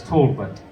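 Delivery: "Talbot" with first syllable like "tall"; demonstrated surname pronunciation. Shown as a demonstration. Contestant explaining unusual spelling, "Talbot" as TAWL-but. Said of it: "It's spelled unusually".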